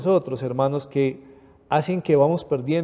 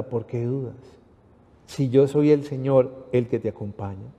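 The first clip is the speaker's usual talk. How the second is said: gentle reassurance; 3 semitones lower, 3 dB quieter than usual. Acted. Jesus's words voiced softly.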